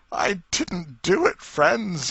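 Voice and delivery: high, loud, slow tearful plea; sobbing plea. Acted. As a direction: beg the crowd through tears. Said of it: "he sobbed".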